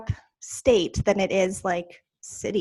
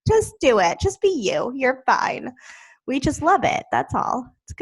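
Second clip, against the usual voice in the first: tag; 5 semitones higher than usual. Retold or imitated. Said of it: "And I'm like".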